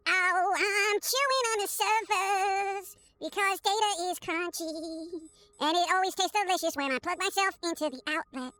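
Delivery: squirrel voice. Acted. Squirrel character speaks.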